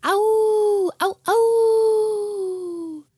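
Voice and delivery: high howling dog cries. Acted. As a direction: howl like a hound dog. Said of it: "bellowed Grandma's hound dog".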